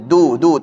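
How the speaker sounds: "du, du" with a light thin d; thin dal. Shown as a demonstration. Teacher shows a thinned dal, light "du, du". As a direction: keep the d of "du" thin.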